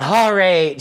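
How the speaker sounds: a laughing, reluctant yes; laughing all right. Retold or imitated. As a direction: give in with a laugh. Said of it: "And I'm just like".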